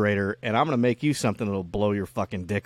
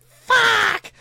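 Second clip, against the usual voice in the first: much higher, louder yelp of frustration; frustrated yell; 8 dB louder than usual. Retold or imitated. Kid finds the toy uncharged, high frustrated yelp. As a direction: blurt out the letdown.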